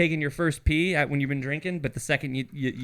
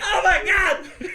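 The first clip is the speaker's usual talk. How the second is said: slow mock dismay; 13 semitones higher, 5 dB louder, slower than usual. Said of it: "And you're like".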